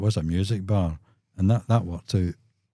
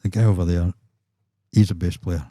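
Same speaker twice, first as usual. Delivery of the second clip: put-on Scorsese-style New York accent; 5 dB louder than usual. Promoter pointing out a bass player, mock New York accent. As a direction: do a Scorsese film New Yorker. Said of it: "or Scorsese more like".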